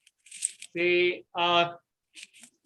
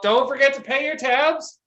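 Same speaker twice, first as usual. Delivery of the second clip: bartender calling out; 4 semitones higher than usual. Acted. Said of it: "calls out".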